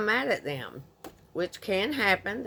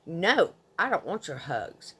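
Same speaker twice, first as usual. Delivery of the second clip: rough, harsh quote. Retold or imitated. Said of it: "Very roughly".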